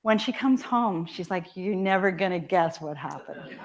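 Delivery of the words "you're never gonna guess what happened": laughing daughter. Retold or imitated. Daughter telling surprising news.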